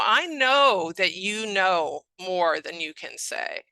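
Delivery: slow, deliberate acknowledgement; slow reassurance. Shown as a demonstration. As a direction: reassure a patient, drawing the words out. Models slow reassurance to a patient.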